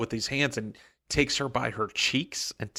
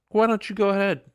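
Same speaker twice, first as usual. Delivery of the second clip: mocking taunt; 10 semitones higher, 6 dB louder, faster than usual. Obligator taunts Vin before Lord Ruler.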